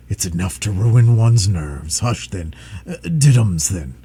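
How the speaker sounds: low, slow fretful cooing; fret, then coo to the baby; fussing dragon. Acted.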